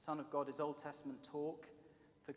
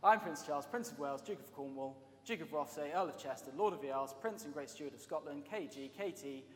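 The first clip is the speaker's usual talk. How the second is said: Prince Charles introducing himself; 5 dB louder than usual. Retold or imitated. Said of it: "I won't try and do his accent".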